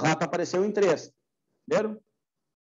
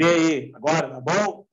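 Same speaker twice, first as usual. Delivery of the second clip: louder opening, testing the mic; real, brief raised-voice mic check; 3 dB louder than usual. Real, not acted. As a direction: call out to check the sound. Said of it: "É que agora eu gritei".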